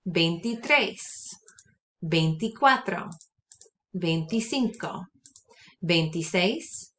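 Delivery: twenties said one by one, slowing toward the end; Spanish counting drill. Shown as a demonstration. Teacher models the twenties for students to repeat. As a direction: model each number for repeating. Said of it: "So repeat after me".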